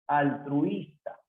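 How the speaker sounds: "altruista" slowly sounded out; slow teaching demo of "altruista"; slow syllables. Shown as a demonstration. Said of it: "O también puede ser".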